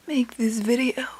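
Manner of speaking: breathy sultry whisper; seductive whisper. Pretend. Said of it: "really seductive".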